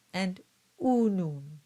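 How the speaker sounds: unum slow with pure oo; Latin diction demo. Shown as a demonstration. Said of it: "examples on the screen".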